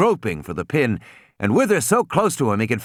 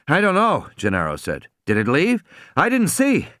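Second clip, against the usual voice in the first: nervous man; 5 semitones higher than usual. Acted. Gennaro character voice.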